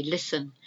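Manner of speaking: "listen" said "lissen", no T; silent T. Shown as a demonstration. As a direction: leave the T out of "listen". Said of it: "but not with that T".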